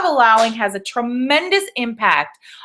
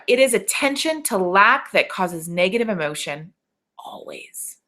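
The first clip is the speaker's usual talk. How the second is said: reading quote. Shown as a demonstration. Coach rereading a quote to her students, final word whispered. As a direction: read it out as a teaching line, fading to a whisper. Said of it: "I'm gonna read this one more time".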